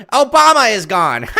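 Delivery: laughing pundit voice. Shown as a demonstration. Laughing in put-on voice.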